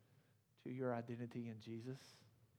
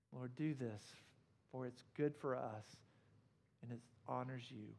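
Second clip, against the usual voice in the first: closing prayer. Acted. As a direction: pray humbly for the congregation.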